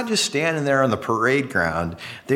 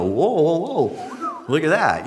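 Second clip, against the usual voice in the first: amazed wonder; 3 semitones higher, slower than usual. Retold or imitated. Preacher imitating an amazed magic show crowd, wide-eyed wonder. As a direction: act dazzled by the trick. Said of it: "It's a lot more fun to go".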